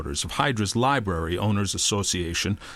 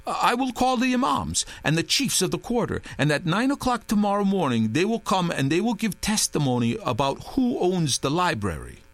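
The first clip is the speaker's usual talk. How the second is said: Touré voice; 7 semitones higher than usual. A narrator's reading. Touré improvising plan.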